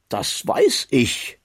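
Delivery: slow, amused, smiling reply; a slow, smiling, amused answer. A narrator's reading. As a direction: say it slowly with a smile. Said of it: "sagte er lächelnd".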